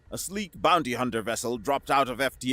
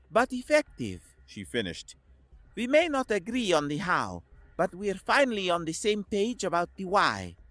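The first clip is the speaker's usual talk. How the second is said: Koslov's voice; 7 semitones higher than usual. A narrator's reading.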